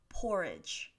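careful model reading of "porridge", stressed on the first syllable; "porridge" set apart and clearly articulated; pronunciation demo. Shown as a demonstration. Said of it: "this word is pronounced".

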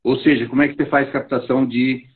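breaking up over a bad call line; choppy connection. Real, not acted. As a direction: voice dropping out, garbled online audio. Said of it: "Tá picotando".

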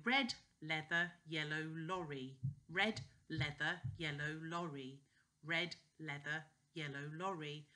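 careful "red, leather, yellow lorry"; tongue twister. Shown as a demonstration. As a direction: move clearly from "leather" to "lorry". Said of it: "works the tongue when you go from leather to lorry".

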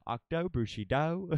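"Octo Bushido" drawn out slowly, rising at the end; slow, questioning "Octo Bushido"; imitating name reader. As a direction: mimic the odd reading of "Octo Bushido", amused. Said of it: "It's the way he says some people's names".

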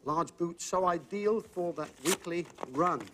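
clue read out slowly, word by word; reading the clue again. Shown as a demonstration. Host rereads the clue to the contestant, deliberate and slow. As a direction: spell each phrase out for the contestant. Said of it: "is what she said".

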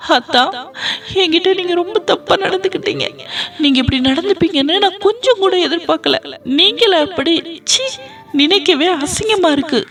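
voiced woman wailing at the man she blames; distraught accusation.

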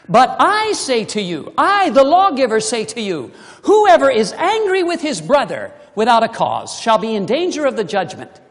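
loud, weighty declaration of the law; solemn proclamation. Acted. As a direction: proclaim it as the lawgiver himself. Preacher voices Jesus the lawgiver.

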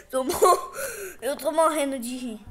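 laughing through the words; words breaking into laughter. Real, not acted.

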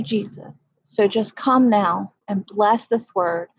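a preacher's prayer to God; earnest spoken prayer. Real, not acted. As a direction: pray it aloud, steady and heartfelt. Spoken prayer on a live stream.

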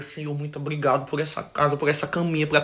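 low, soft bedtime thanks; murmured prayer. Retold or imitated. Thanking the Lord for house and bed, quietly prayerful. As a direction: re-enact a humble prayer, dropped low and quiet.

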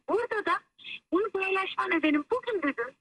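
over the phone. Real, not acted. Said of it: "hoparlöre aldım seni".

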